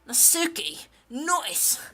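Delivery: broad Aussie vowels; playful Australian twang; Australian accent. Acted. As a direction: call it out in a put-on Australian accent. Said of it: "I'll say anything you want in Australian accent".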